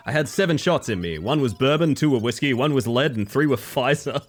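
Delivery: hardboiled detective quip; a hint of a noir gumshoe. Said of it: "The noir detective thing always reminds me of the shitpost".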